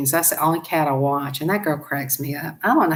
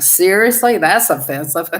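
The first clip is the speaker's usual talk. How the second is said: mock offended; 2 semitones higher, 4 dB louder than usual. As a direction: act scandalised, half-laughing. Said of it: "I'm like".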